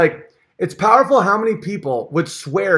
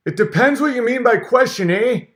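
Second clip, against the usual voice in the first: higher mock-Peterson dodge; Peterson impression; 6 semitones higher than usual. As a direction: dodge the question smugly, eh. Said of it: "talks like a frog".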